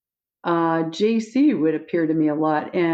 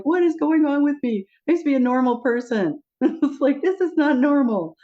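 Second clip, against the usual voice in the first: higher, wound-up retold panic; mock panic; 9 semitones higher than usual. Telling Jesus her life is not normal, mock panicky. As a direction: play up the freak-out.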